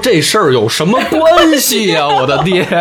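high, whiny protest to dad; a daughter squeals her protest at her father, high and hammed-up; mock whiny daughter. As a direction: whine it up high like a put-out daughter.

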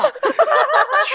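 high burst of laughter; crowd laughter. Retold or imitated. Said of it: "全场哄堂大笑".

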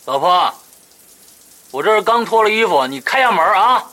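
calling out. Acted. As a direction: shout to your wife in the next room. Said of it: "冲着浴室的门喊了一声".

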